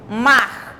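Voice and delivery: MAR said as one single syllable; uma só emissão. Shown as a demonstration. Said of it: "pronunciar uma sílaba". ("mar" numa só emissão de voz)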